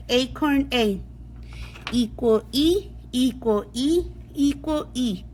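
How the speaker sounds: letter names stressed after each word like "acorn A"; sing-song drill, rising then falling on the third; long vowel sounds. Shown as a demonstration. Teacher drilling long vowel sounds, sing-song rise and fall. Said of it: "go over the long sounds".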